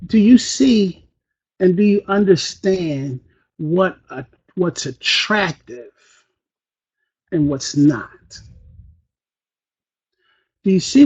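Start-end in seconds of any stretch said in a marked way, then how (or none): 1.6-8.4 low, soft, slowed-down question; deliberately subdued; unexcited. Pretend. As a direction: ask it with the energy drained. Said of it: "are just like I am now".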